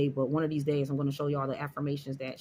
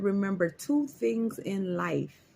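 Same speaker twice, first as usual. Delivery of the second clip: quoting the lady; 2 semitones higher, slower than usual. Retold or imitated. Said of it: "She said".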